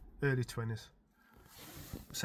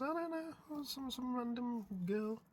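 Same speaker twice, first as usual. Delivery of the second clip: higher, slow, softer shrug; clueless dad; 10 semitones higher, 9 dB quieter, slower than usual. Retold or imitated. Dad answering his son, slow, higher and baffled. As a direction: drag it out, baffled. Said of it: "I goes".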